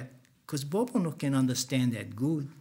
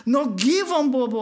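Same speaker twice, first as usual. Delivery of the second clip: 1 calling out; 9 semitones higher, 5 dB louder than usual. Retold or imitated. Calling to stop Bobo.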